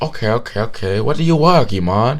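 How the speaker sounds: eager questioning in a mock Vietnamese accent. Gym stranger asking about work, imitated Vietnamese accent. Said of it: "thick, thick Vietnamese accent".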